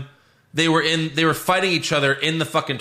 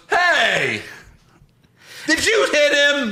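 indignant referee; 13 semitones higher, slower than usual. Retold or imitated. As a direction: call it out like an outraged referee. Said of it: "then the ref goes".

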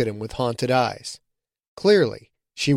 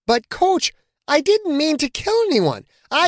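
pleading. A narrator's reading. Rebecca pleads with coach.

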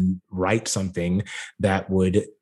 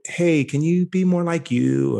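higher, brighter director voice; casting director voice; 7 semitones higher than usual. Retold or imitated. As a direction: imitate a pushy director. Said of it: "I would get the note".

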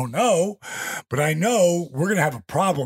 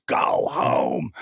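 drawn-out mock yell; retold screaming. Officials screaming to end the match, mock yell. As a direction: imitate officials calling out, without full volume. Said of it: "So they're screaming".

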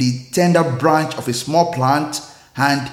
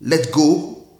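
calm; 2 semitones lower than usual. Acted. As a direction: reassure him gently, letting the voice drop away. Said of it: "calmly replied".

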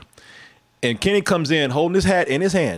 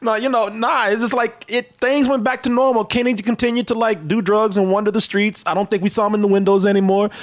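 higher, talk through leftover laughter; laughing; 7 semitones higher than usual. Real, not acted. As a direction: still giggling while winding down. Still laughing after joke.

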